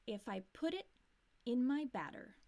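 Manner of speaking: batter with a flap T like D. Shown as a demonstration. Teacher shows batter said with a flap T. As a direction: say batter as badder.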